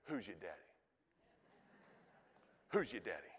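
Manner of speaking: low, soft, swaggering "Who's your daddy?"; modern slang. Pretend. God walking up to his children, low playful slang boast. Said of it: "says it in two thousand nineteen vernacular".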